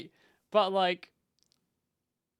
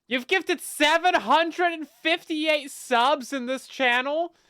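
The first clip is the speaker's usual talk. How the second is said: high, loud, slow disbelief; astonished; 8 semitones higher, 7 dB louder, much slower than usual. Real, not acted. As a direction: gasp it out in disbelief. Astonished at gift count.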